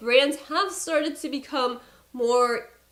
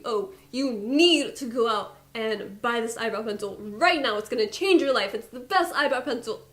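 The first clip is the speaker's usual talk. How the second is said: hype salesperson. Pretend. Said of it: "something just ridiculous".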